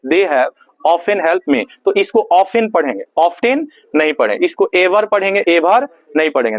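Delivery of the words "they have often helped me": very slow, word by word; slow dictation. Shown as a demonstration. Teacher dictates the English sentence to class, very slowly. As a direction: dictate it slowly for students to write. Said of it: "dictating slowly".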